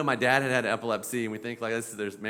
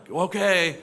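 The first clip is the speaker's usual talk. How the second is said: condescending; 6 semitones higher, 6 dB louder than usual. Retold or imitated. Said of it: "moms and dads that you're like".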